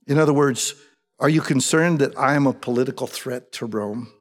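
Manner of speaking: measured, unruffled questioning; calm and respectful probing. Retold or imitated. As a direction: ask it evenly, without challenge. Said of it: "That's how calm he is".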